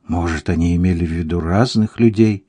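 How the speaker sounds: ordinary delivery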